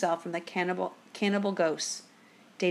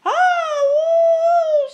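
very high, drawn-out wail of pain; loud pained howl; 11 dB louder than usual. A narrator's reading. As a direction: howl like a wounded ghost. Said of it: "she cried".

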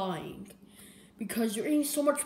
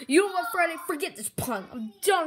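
exasperated; 5 semitones higher, 4 dB louder than usual. Acted. Fed up, quitting the joke.

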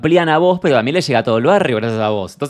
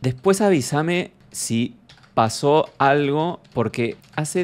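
slow dictation; 2 semitones lower, 4 dB quieter, slower than usual. Pretend. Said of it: "Le voy a poner".

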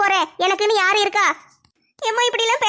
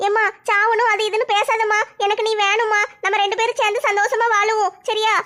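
put-on young girl voice. Daughter begs her mother not to talk of dying, lightly voiced pleading girl. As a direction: gently beg mother to live, in a slightly raised girl's voice.

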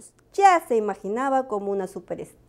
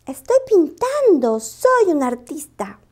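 agudo, lento y muy satisfecho; orgullo; 7 semitones higher, 3 dB louder, slower than usual. Acted. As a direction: presume de ser artista. Lupo presume de artista. (Lupo orgulloso ante su novia, agudo)

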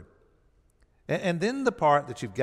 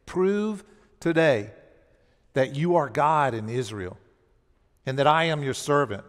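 earnest prayer; 3 dB louder than usual. Retold or imitated. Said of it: "he prayed".

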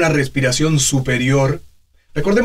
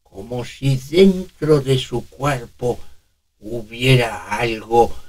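put-on toothless old man; 3 semitones lower, slower than usual. Shown as a demonstration. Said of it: "Simular una dentadura postiza".

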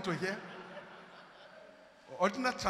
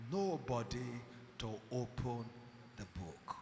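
hushed, low lament, sinking at the end; subdued retold cry, trailing down; 9 semitones lower, 11 dB quieter than usual. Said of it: "So there was a cry".

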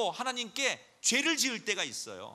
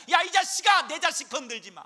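furious shouted rebuke, much higher and louder; God rebuking Satan; 7 semitones higher, 8 dB louder than usual. Acted. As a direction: roar at Satan to back off. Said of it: "하나님께서 말씀하십니다".

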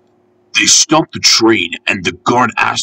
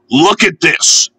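raised, higher calling voice; mild shout; 6 semitones higher, slower than usual. A narrator's reading. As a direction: call out sternly, without full volume. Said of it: "he shouted".

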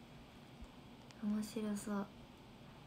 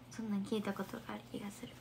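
ordinary talk, nothing marked

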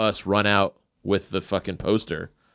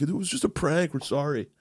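sheepish apology; 5 semitones higher, 6 dB quieter than usual. Retold or imitated. Apologizing to manager.

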